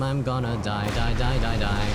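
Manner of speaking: loud hammed-up dying cry; mock dramatic wail. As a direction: ham up the doom. Mock despair at dying in game.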